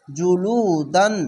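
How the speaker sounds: জুলুদান drawn out slowly, syllable by syllable; recite slowly. Shown as a demonstration. Teacher modelling জুলুদান slowly for learners. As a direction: give জুলুদান a slow, careful recitation. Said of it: "এভাবে পড়ে নেয়".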